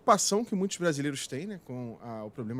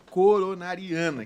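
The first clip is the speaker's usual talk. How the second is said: CORONARIANA said carefully, syllable by syllable; devagarzinho e articulado; 3 semitones higher, 5 dB louder, slower than usual. Real, not acted. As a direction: articulate "coronariana" slowly, every syllable distinct. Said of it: "falar bem devagarzinho, articulando as palavras". ("coronariana" bem devagarzinho, sílaba por sílaba)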